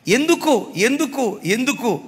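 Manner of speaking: building rhetorical why; repeated why. Real, not acted. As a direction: press the question home.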